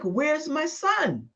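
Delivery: slow, high anguished cry; mother's high slow sobbing cry to God. Retold or imitated. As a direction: plead for her lost son, voice breaking. Grieving mother demands of God.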